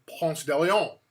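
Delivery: Ponce de Leon said slowly, "PONS deh lee-OHN"; slow, careful Ponce de Leon; proper pronunciation. Shown as a demonstration. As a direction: give Ponce de Leon its Spanish-style ending, OHN. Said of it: "that's the proper pronunciation".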